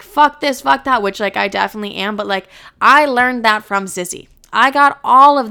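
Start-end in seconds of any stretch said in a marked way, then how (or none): 0.0-1.0 higher, louder defiant brush-off; defiant bad bitch. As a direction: shrug it all off with sass. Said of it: "I'm like".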